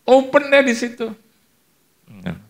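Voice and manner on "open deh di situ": high, loud mock yell; retold shouting. Preacher wanting to call his friend back at the door, high shouting. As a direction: call out after someone, pitched way up. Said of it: "saya teriak".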